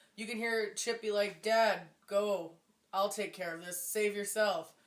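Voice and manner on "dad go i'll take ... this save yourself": play-acted, flat, deadpan reading with no emotion. Mocking a movie son's line to his dad amid chaos, Chip's deadpan line reading. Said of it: "Completely deadpan".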